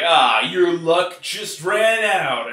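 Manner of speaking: slow, tough movie one-liner, leaning on ran; action hero one-liner. Shown as a demonstration. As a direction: deliver it like a hero about to finish the villain. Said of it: "which sounds like a great action line".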